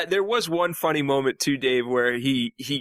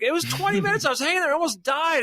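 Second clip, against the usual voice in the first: much higher, hammed-up indignant crewman; retold outrage; 13 semitones higher than usual. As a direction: squeak it out like a wronged astronaut. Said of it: "And he's like".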